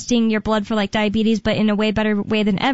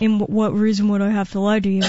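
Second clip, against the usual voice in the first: lightly faked low serious voice; forcing a deep voice. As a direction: imitate a put-on deep voice. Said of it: "she puts on a fake deep voice".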